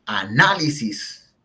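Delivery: Análisis drawn out, leaning on NÁ; a-NÁ-lisis, slowly and emphatically; stress on antepenultimate syllable. Shown as a demonstration. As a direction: stretch the second syllable of Análisis. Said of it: "que es en la antepenúltima sílaba".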